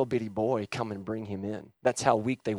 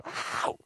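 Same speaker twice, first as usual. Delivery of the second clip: acted groan; 6 dB quieter than usual. Acts Samson placing hands on pillars.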